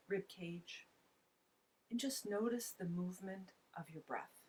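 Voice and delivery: unhurried guidance with long pauses between phrases; calm mindfulness instruction; guided meditation. Real, not acted. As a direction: gently guide listeners to notice the breath, leaving space after each phrase. Leads a breathing meditation.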